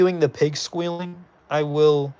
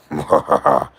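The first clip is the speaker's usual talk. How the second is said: pig squeal attempt; 13 semitones lower, 5 dB louder than usual. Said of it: "I can't do pig squealing sounds".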